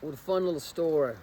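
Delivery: a lightly put-on Cajun accent, kept up loosely; self-mocking Cajun accent. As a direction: tell the story in a deliberately failed Cajun accent. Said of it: "I'm talking in my, my Cajun accent".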